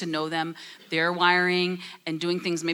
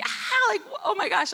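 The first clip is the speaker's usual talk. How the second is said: retold scream. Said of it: "I literally remember screaming".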